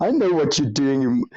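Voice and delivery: ordinary talk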